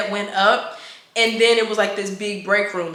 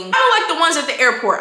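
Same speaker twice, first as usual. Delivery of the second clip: louder, higher blurted comparison; shouted aside; 5 semitones higher, 3 dB louder, faster than usual. Real, not acted. Telling viewers about the cart, blurted loudly. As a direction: call it out to the audience. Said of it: "I know I keep shouting out".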